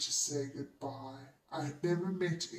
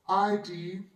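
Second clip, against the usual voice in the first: demanding; 4 semitones higher, 7 dB louder than usual. A narrator's reading. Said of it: "demanded the white man".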